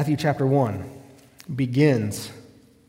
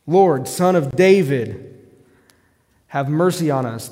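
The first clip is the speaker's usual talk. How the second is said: loud, slow cry of "Lord, Son of David"; retold plea shout; 6 dB louder, slower than usual. Preacher voicing the blind men's loud plea. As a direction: call out for mercy like blind men by the road. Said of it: "they shouted to him".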